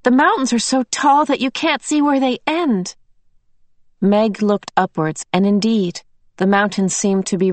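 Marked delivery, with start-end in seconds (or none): 0.0-2.9 put-on awed child voice. Child voice in awe.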